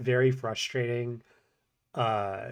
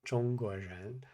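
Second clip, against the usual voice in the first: faster take; 6 dB quieter, slower than usual. Shown as a demonstration. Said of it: "try to say it at anything beyond that speed".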